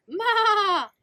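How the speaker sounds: loud high bleat; goat bleat. Acted. Goat calling out to the truck, loud high bleat.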